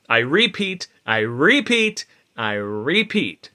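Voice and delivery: spiral up, then let it sink; rising then collapsing. Acted. Repeated words, rise then drop.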